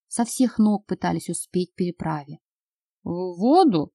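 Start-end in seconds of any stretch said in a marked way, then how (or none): 3.0-3.9 крик сквозь одышку; выкрикнуть, задыхаясь от бега; задыхаясь на бегу. Acted. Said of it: "задыхаясь, крикнул Бэкс". («В воду?» — крик на бегу, задыхаясь)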